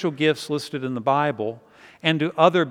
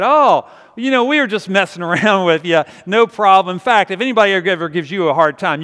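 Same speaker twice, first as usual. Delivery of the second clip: louder, acted friendly backtracking; hasty backpedalling; 3 semitones higher, 6 dB louder than usual. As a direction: imitate bullies suddenly making nice. Bullies backpedal on hearing the name.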